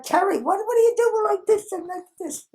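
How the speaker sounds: high-pitched baffled questioning; amused exasperated question. Retold or imitated. Coworker teasing Terry about her shaking head, exasperated and amused.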